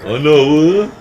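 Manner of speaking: high, loud rising hail; loud, rising call. Acted. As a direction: hail your guest by title. Host hails guest jovially.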